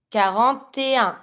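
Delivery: "Quarante et un" flowing as one word; smooth liaison. Shown as a demonstration. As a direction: link "Quarante et un" without breaks. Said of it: "make as smooth as possible".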